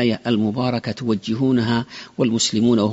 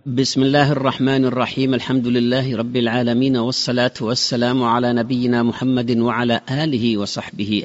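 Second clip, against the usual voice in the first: formal standard arabic. Acted. Radio host opens programme.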